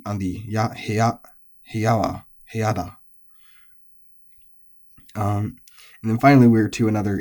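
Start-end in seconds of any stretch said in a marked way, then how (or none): 0.7-2.9 "heya" rising to "ya", dropping on the particle; tail-high accent. Shown as a demonstration. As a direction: keep "heya" high at the end, then drop on "wa" and "ni". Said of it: "put that accent on the ya".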